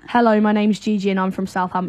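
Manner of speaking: Southern English, h sounded on "hello"; Southern English accent. Shown as a demonstration. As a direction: switch into your own Southern English accent. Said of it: "then say it in a Southern accent".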